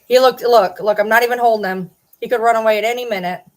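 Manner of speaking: loud, quick excited chatter. Real, not acted. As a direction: burst out loud and fast. Excited about the cat.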